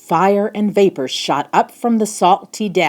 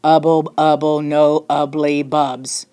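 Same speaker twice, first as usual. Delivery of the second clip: whisper; 3 semitones lower than usual. Acted. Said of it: "then he whispered".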